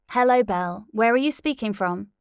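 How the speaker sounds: high cheery presenter; bright host. Acted. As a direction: greet the caller warmly. Radio host asks.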